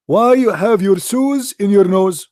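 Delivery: high, slow scolding mother voice; mother's voice. Retold or imitated. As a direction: play his mother, puzzled and slow. Mother voiced in childhood story.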